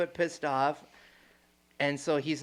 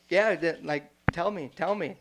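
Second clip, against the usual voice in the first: retold laughing; 2 semitones higher, 5 dB louder than usual. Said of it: "as I'm laughing".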